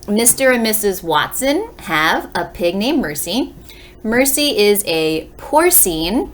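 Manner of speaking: storybook read-aloud for a class; reading to children. Acted. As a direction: read the blurb aloud to young listeners. Reads book blurb to class.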